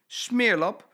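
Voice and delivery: loud, high scolding; wife scolding her husband's dirty shoes; scolding cry. Acted. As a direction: tell him off sharply. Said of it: "roept ze".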